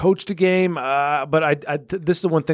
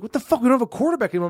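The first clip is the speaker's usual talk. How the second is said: higher, outraged disbelief; shocked players; 5 semitones higher, much faster than usual. Pretend. Team hearing their quarterback is fired, shocked and higher. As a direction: blurt it like stunned teammates. Team reacts to firing Brady.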